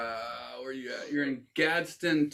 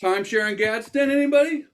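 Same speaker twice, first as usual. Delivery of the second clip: higher, louder hawker's call; mock salesman pitch; 7 semitones higher, 5 dB louder than usual. Host hawking Gadsden timeshares to players, loud mock pitch.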